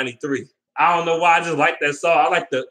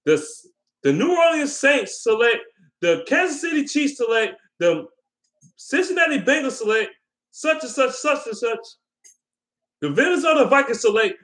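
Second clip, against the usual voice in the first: draft announcer; 9 semitones higher than usual. Retold or imitated. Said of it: "they're like".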